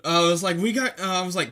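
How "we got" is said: yelling. Retold or imitated. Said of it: "yelling over my shoulder".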